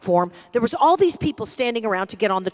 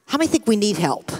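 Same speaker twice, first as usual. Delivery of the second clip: ordinary talk, nothing marked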